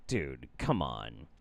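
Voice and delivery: ordinary talk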